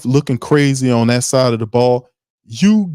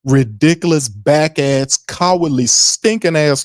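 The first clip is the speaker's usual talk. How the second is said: higher, slow, each insult hit hard; ranting list; 4 semitones higher, slower than usual. Real, not acted. Ranting to fans about the losses, slow and higher. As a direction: pile the insults on, building.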